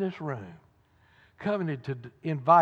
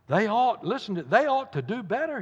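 mild indignation, pitched up on the complaint; deploring; 5 semitones higher than usual. Acted. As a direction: deplore it like a disgruntled churchgoer. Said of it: "deploring the decaying state of the church".

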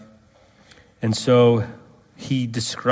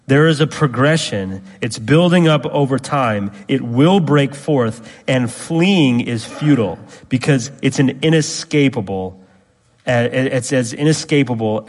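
louder, higher preacher voice, driving hard; preaching at full force; 3 semitones higher, 5 dB louder than usual. Acted. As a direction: build the warning like a pulpit climax.

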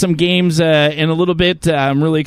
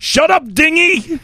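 sitcom waitress; 10 semitones higher, slower than usual. Retold or imitated. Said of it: "I didn't say she was like".

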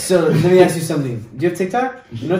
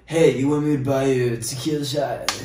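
mock flirting.

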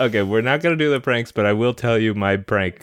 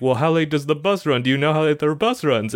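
mock panic; 5 semitones higher than usual. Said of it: "reacting with a higher, more frayed gasp".

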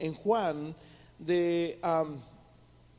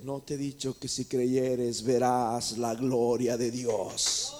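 low, slow Jesus voice; 8 semitones lower, slower than usual. Acted. Jesus gently rebuking Marta, low and slow. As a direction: lower and slowed, a grave deliberate question.

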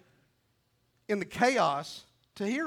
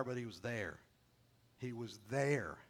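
soft gentle murmur; 7 semitones lower, 8 dB quieter than usual. Acted. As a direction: lower and much softer, slowing down. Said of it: "gentle whisper".

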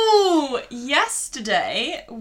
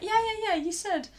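dismissive yeahs; 10 semitones higher, 4 dB quieter than usual. Retold or imitated. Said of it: "And you're like".

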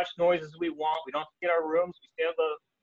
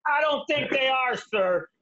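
higher, deadpan put-down; the cop shuts the joke down; mock-stern trooper; dry trooper correction; 9 semitones higher, slower than usual. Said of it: "I go".

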